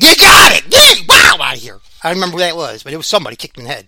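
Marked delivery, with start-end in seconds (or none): 0.0-1.8 sudden high mock shout at the guy. Scared guy blurts back at Sean Strickland, mock yell. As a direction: bark it out startled and loud. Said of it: "And he said".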